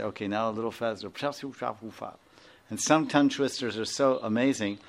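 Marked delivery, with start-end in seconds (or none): 0.0-1.1 quicker. Shown as a demonstration. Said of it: "like this, and say".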